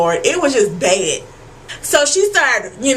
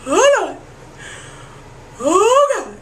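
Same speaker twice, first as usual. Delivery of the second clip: mock-panicked holler; reenacted hollering; 7 semitones higher, slower than usual. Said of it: "I was hollering".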